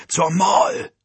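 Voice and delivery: high, loud directional shout; shouting through wind. A narrator's reading. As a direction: yell it out over rushing wind. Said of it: "schrie durch den Wind".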